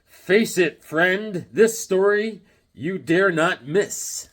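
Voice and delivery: slow, punched comic-book hype; dramatic blurb reading. Acted. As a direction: deliver it like a hammy promo announcer. Reads cover blurb dramatically.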